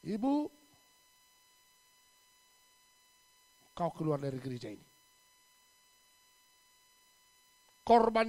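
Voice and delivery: loud furious shout; angry expulsion. Retold or imitated. Pastor furiously ordering the widow out of church. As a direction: throw her out, roaring.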